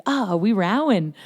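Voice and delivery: sing-song attempt at an Irish lilt; bad Irish accent. Podcaster repeating a favorite line from the film, attempted Irish accent. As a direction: playfully try on an Irish accent, swooping up and down. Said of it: "I can't do an Irish accent".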